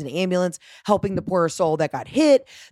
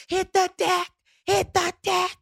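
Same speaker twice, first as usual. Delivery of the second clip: much higher, barked order like a TV cop; hammed-up cop command, pitched way up; retold yell; 12 semitones higher than usual. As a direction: play a tough detective ordering everyone down. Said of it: "I yelled at this woman like I was Olivia Benson".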